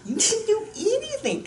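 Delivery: high swooping mock boast; mock grand promise. Joking to viewers about the diet plan, high mock boast. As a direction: sell the joke with a big high swoop.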